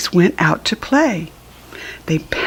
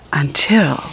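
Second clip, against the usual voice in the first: suspenseful whisper; 5 semitones lower than usual. A narrator's reading. Suspense in story narration.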